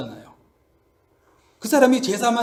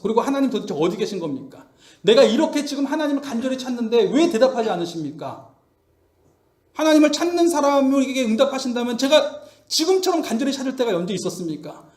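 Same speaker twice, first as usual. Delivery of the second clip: pleading outcry, moderately raised; crying out. Retold or imitated. Job calling on an absent God, crying out. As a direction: demand an answer from a silent God. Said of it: "그러면서 막 부르짖어요".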